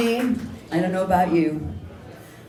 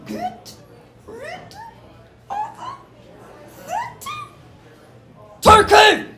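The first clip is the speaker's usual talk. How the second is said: mayor exploding, much louder and higher; enraged bark at the turkey; furious shout; 6 dB louder, slower than usual. Acted. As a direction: bellow the order in a rage. Furious mayor orders turkey removed.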